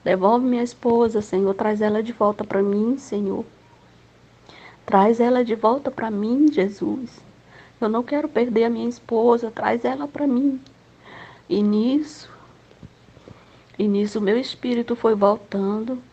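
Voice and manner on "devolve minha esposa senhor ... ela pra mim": husband crying. Retold or imitated. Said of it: "E ele já tava chorando".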